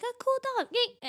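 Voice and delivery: put-on high, sarcastic kid cheer; sarcastic little cheer over a cheap toy; mock enthusiasm. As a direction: fake a child's thrilled yay. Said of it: "they're like".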